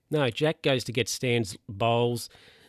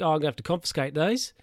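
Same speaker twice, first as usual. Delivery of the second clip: officious guard; 5 semitones higher, faster than usual. Retold or imitated. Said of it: "the guy's like".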